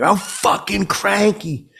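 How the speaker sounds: high, drawn-out mock yell; retold scream. Drunk fan got angry about a drummer, mock screaming. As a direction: exclaim it high and slow, not full volume. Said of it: "I think I screamed".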